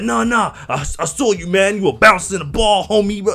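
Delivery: high, mock homie-talk voice; insistent teacher imitation. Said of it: "He was like".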